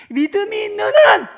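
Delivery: high, loud burst of conviction; full-voiced pulpit outburst; emphatic preaching shout. Real, not acted. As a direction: drive the point home to the congregation. Preacher drives home his main point.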